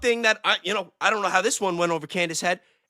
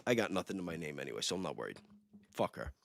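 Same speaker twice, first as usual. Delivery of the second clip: low, much softer throwaway aside under the breath; muttered aside; 13 semitones lower, 7 dB quieter, faster than usual. Real, not acted. To the co-hosts, about maybe getting sued: a low, soft, dismissive mutter. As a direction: drop it to a private grumble and shrug it off.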